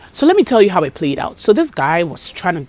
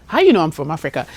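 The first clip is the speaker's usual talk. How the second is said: put-on Ghanaian accent; faster than usual. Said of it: "My American is coming".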